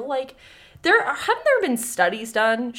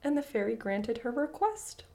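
story reading. Acted. Reads fairy tale aloud.

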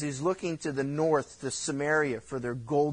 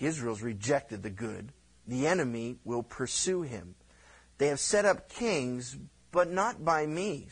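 a hint of a grave God; 3 semitones lower than usual. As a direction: speak as a grave God passing judgment. God's reply, read low.

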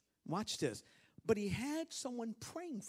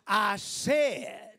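bold retort; 11 dB louder than usual. Acted. Preacher voicing Jesus' answer.

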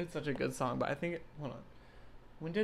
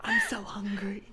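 put-on old lady voice; 6 semitones higher, 3 dB louder than usual. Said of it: "You just sound like a quiet British person".

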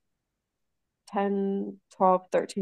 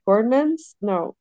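normal talking voice

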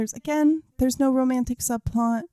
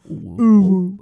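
loud cutesy uwu; 2 semitones lower, 11 dB louder than usual. Pretend. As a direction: squeal it like an anime cutie. Echoes uwu playfully.

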